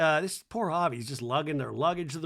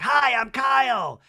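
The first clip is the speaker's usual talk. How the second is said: loud greeting; 8 semitones higher, 8 dB louder, slower than usual. Retold or imitated. Kyle greets Reba loudly.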